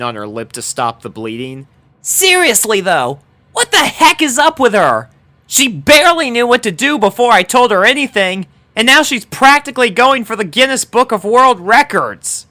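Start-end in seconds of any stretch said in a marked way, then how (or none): 2.0-12.5 high, loud put-out voice; complain, baffled and a bit sore; exasperated tomboy. A narrator's reading. Dash grumbles to her friends about the new girl, high and loud.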